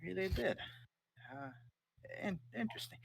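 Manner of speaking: high, skeptical mother; eyeing the new dragon warily; mother's voice. Acted. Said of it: "She goes".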